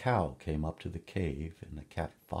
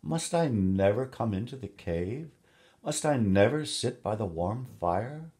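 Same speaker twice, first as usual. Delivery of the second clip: a higher, louder, put-on plea; pretend sorrow; 5 semitones higher, 5 dB louder than usual. A narrator's reading. Cat begs the woman for the fire, mock sorrowful. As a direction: whine for pity you don't feel. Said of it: "the cat pretended to be sorry and said".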